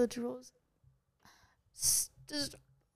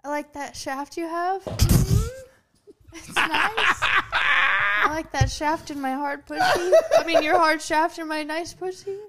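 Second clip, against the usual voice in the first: awkward sexy talk; 4 semitones higher, slower than usual. Pretend. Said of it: "when we try to make you be sexy".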